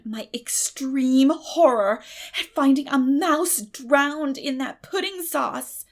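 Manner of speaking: slow, loud stage whisper of horror; dramatic horror. Acted. Anne telling Diana about the mouse, slow hammed-up horror whisper. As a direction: draw it out like a ghost story.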